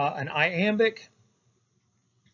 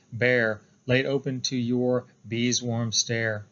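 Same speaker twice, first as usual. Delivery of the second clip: slow, measured poem recital; deliberate, weighted reading of a poem; poetry reading; 4 semitones lower, slower than usual. Acted. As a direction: read the verse aloud in a lower, even cadence. Reads a poem aloud.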